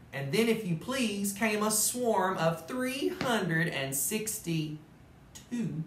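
lively storybook narration; animated read-aloud; reading to children. A narrator's reading. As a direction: tell it like a bedtime story to kids. Reads Dr. Seuss story aloud.

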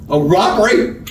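can't believe what you're hearing; startled disbelief, rising; incredulous. A narrator's reading. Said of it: "Straw Hat sounded incredulous".

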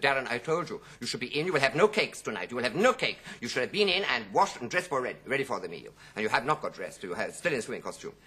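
understated scolding mother; a mild, insistent ticking-off; telling off. Retold or imitated. Mother to her son Darren, mildly scolding. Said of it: "his mother came out and told him off".

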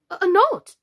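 high, loud, eager question; crying out. A narrator's reading. Alice eager to make herself useful, crying out. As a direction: pipe up loudly, a little hesitant. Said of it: "cried Alice".

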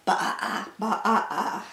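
broken, stuttering baa; storybook sheep with a pulsing vowel; sheep bleat. A narrator's reading. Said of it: "bleated the sheep".

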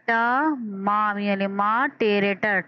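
टा मा यानी मा टेरे टर drawn out slowly; slow teacher spelling-out; sounding out syllables. Shown as a demonstration. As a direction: sound each letter of the syllables. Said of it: "तीन आवाज़ों में".

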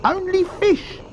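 very high little-croc voice; high-pitched croc insistence; not-so-big crocodile. A narrator's reading. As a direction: pitch it right up, as a small croc. Smaller crocodile objects.

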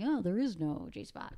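slow, lightly voiced smug researcher; mocking male researcher. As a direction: play a know-it-all man, slowly. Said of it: "male researchers are going".

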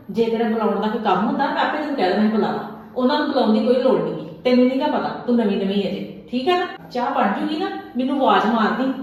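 loud, stern warning; a mother-in-law warning her daughter-in-law, loud and threatening; threatening scold. Acted. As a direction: put the fear of you into her. Mother-in-law threatens new bride.

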